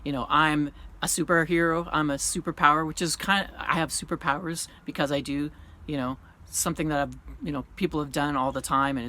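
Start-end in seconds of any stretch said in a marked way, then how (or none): 0.3-2.9 mocking quote. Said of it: "post a video and say".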